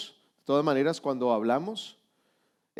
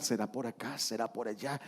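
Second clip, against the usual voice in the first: unsure musing; 6 semitones lower, 12 dB quieter than usual. Pretend. Confused believer voiced.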